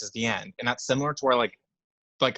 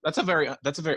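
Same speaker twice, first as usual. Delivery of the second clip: voice crack; faster than usual. Real, not acted. Praising an underrated film, real voice crack. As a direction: voice cracking upward mid-phrase. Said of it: "big voice crack".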